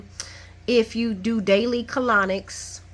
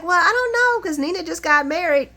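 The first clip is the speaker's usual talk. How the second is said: retold character reply; 9 semitones higher, 5 dB louder than usual. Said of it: "she's like".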